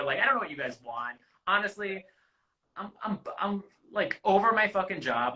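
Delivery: improvised, fed-up audition rant, acted; off the cuff. Shown as a demonstration. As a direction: ramble candidly like an exasperated applicant, stumbling over words. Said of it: "it's really just off the cuff".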